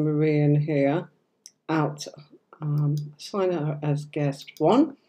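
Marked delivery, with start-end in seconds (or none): 1.7-5.0 whispered aside while working the software; whispering instructions to herself; whispered to self. Real, not acted. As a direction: murmur it under your breath, just for yourself.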